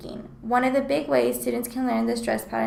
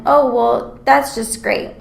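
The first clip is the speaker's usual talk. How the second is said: mildly sarcastic, a little louder; 7 dB louder, slower than usual. Shown as a demonstration. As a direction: say it with a touch of mock approval. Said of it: "used to achieve a sarcastic quality".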